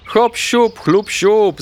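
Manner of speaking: high, excited little call; a child's gleeful chant; delighted call. A narrator's reading. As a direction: call out with glee. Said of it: "zawołał Ignaś zachwycony".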